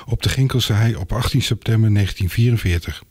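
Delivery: measured scripted TV intro; phrase by phrase, dropping at sentence ends; programme announcer read. Acted. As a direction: present the line-up in a composed announcer's read. Presenter reads scripted item introduction.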